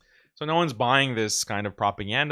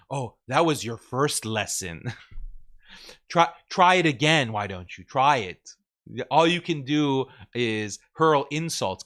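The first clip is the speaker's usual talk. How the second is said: mock boss babe. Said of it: "this boss babe attitude".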